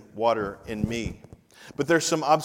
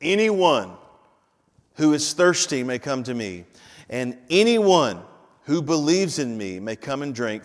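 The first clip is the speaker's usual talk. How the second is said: Jesus shouting. Retold or imitated. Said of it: "Jesus is shouting".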